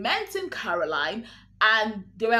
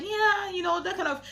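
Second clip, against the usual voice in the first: high-pitched coy evasion; 9 semitones higher than usual. Retold or imitated. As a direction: imitate someone coyly hedging. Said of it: "she was a bit coy".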